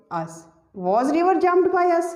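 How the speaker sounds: the finished sentence drawn out very slowly; slow dictation. Shown as a demonstration. Teacher reading the finished passive sentence to students, very slow. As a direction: read it back slowly for the class to copy.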